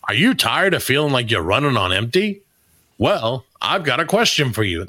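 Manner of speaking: put-on ad announcer read; attempted pitchman voice. Reading AI-written sponsor copy to co-hosts, hokey announcer voice. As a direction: sell it like an old TV spot. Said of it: "in the voice that I try".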